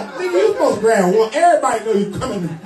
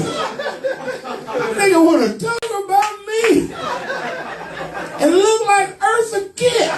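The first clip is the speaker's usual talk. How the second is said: high slow mock voice; 10 semitones higher, much slower than usual. Mocking the man's look.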